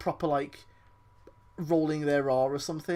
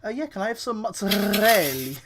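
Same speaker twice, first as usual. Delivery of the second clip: mock Italian accent; 3 semitones higher than usual. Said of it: "hearing someone say".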